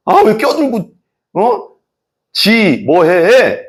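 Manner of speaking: a driver annoyed behind closed windows; mock road rage. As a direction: snap at the car cutting in.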